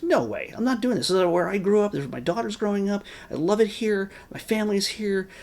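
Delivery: a hint of a protective small-town mother; imitating Allison. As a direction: play the stubborn hometown mom refusing to sell. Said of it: "Allison's just like".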